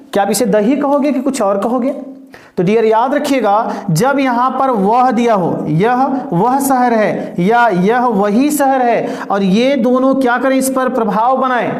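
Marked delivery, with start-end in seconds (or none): 5.7-9.2 slow, deliberate pace; slow example read-out. Shown as a demonstration. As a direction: read both examples slowly. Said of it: "reads example pair slowly".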